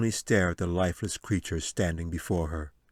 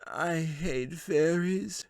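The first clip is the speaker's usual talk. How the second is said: disgusted wizard; 9 semitones higher, 3 dB quieter, much slower than usual. A narrator's reading. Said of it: "Gelzuin turned aside in disgust".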